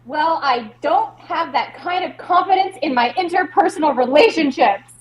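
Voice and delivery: defensive retort. Acted. Performer defends self in acted quarrel.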